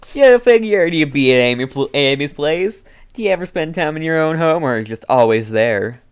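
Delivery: lightly voiced cocky boy; a hint of a brash teen; Derek voice. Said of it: "that's my new Derek voice".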